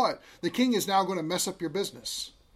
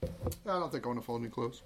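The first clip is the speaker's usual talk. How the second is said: put-on sulky kid; 6 semitones lower, 9 dB quieter, faster than usual. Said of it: "Here's what's going to happen".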